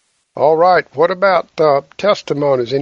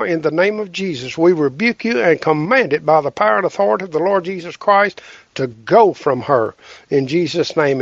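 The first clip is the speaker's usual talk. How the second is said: healing prayer. Acted.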